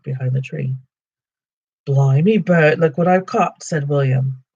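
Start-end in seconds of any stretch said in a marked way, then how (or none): 1.8-3.6 troll voice. Acted. Troll William grabs Bilbo.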